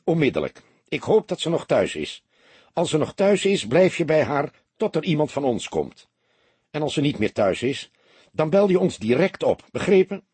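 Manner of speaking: urgent orders. Acted. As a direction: push him to go right now. Inspector urgently orders Tom back. (dringend en luid bevelend)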